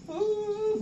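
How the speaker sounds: high, drawn-out fake wail; mock whimper. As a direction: imitate a whiny sob. Acts out whimpering plea.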